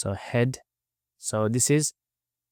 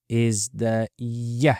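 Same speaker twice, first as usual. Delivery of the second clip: whispered; much slower than usual. Shown as a demonstration. Teacher whispers letter name.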